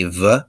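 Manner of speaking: V as a short "vuh", partway to F; between V and F. Shown as a demonstration. Teacher showing how to say the letter, between V and F. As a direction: let V loosen toward an F. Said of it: "somewhere in between a V and an F".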